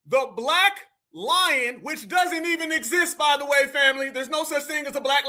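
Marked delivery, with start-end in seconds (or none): 0.1-1.8 drawn-out, incredulous repeat; mocking disbelief. Real, not acted. Host repeating the new party name, slow mockery. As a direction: stretch each word out slowly in scorn.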